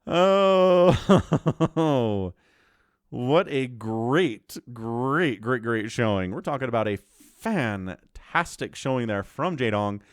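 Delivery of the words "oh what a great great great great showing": slow, laughing through the words; laughing praise. Real, not acted. Caster laughing as he praises the winner's showing. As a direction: chuckle as you praise the win.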